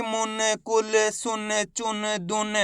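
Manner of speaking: मुन, सुन, चुन with a short quick उ; short vowel clipped. Shown as a demonstration. Teacher showing pupils the short उ vowel. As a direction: keep the उ in सुन and दुन short. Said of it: "उच्चारण कम खींच के".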